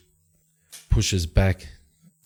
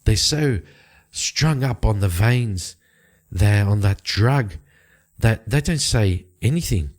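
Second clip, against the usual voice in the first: slightly exasperated explanation, pitched higher; lightly voiced informant; 3 semitones higher than usual. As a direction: lightly play a woman reporting a stalled investigation, higher voice. Game master voices Bryn explaining the problem.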